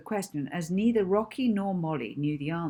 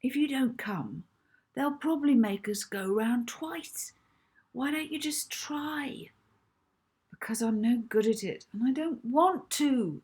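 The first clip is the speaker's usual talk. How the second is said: put-on childish argument; 6 semitones higher than usual. A narrator's reading. Children arguing in story.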